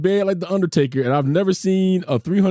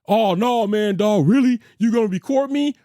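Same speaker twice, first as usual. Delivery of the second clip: higher-pitched imitation of an indignant man; mock protest; 4 semitones higher than usual. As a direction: mimic his disbelief, pitched up. Voices the neighbour caught on camera.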